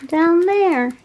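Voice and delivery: a small creature calling up to a friend; little dragling voice. Pretend. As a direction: beg a friend for a cookie. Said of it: "He's like".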